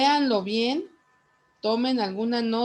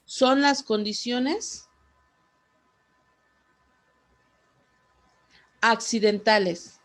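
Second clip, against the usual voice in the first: repeating clearly; 2 semitones higher, 4 dB louder than usual. Real, not acted. Teacher repeats for a student who missed it, projecting clearly.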